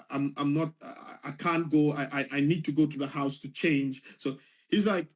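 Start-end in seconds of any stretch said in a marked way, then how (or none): 0.1-4.0 nervous retold stammer. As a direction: stumble over the first words. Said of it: "stammering basically".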